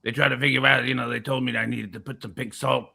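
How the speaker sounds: a hint of rumbling in the back of the voice; lightly put-on impression with long-drawn name; Alex Jones. Product seller grumbling to Vic, lightly voiced rumbling impression. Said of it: "it's a hard voice to do".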